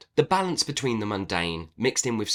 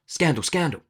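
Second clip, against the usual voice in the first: mock gasp, high-pitched outrage; theatrical fake shock; mock scandalised; 10 semitones higher, 4 dB louder than usual. Mock outrage at own lie.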